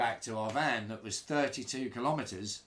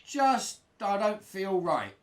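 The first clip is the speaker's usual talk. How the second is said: nervous mutter; 9 semitones higher, 6 dB louder, slower than usual. Retold or imitated. Nervous in stranger's car.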